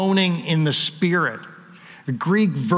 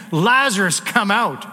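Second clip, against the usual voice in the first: commanding call; 3 semitones higher than usual. Retold or imitated. Pastor voicing Jesus's summons at the tomb, firm command. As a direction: call him out with authority. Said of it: "He's giving a commandment".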